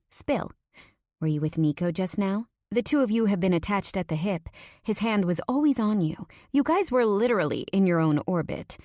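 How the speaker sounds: a hint of a nosy best friend; lightly voiced Natalia, teasing. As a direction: prod for gossip, lightly in character.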